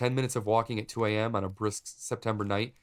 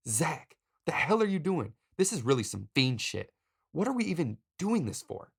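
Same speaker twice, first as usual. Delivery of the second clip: high-pitched, incredulous self-interrogation; exasperated questions, pitch jumping up; questioning himself aloud; 8 semitones higher than usual. Acted. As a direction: challenge yourself in bewildered disbelief. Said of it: "I question out loud".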